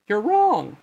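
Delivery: the king interrupting from afar, high and loud; king's high voice. A narrator's reading. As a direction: call out high and firm. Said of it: "the voice spoke out again".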